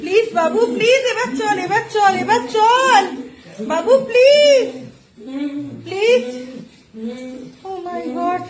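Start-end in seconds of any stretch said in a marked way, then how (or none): 0.0-6.2 1 crying plea. Real, not acted. Begging friend to come away.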